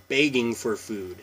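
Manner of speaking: "begging" with a short eh; bag as beg. Shown as a demonstration. Vlogger explaining her Washington vowels with bag and beg. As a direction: say "begging" plainly with eh. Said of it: "but not beg".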